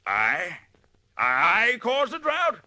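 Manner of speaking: slow, high, feigned astonishment; high drawn-out innocent protest; mock disbelief. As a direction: play innocent, stretch it out in fake shock. Accused villain feigns disbelief.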